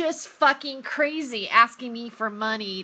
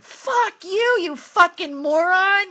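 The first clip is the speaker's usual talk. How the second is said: retold angry outburst; 6 semitones higher, 5 dB louder, slower than usual. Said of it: "I went".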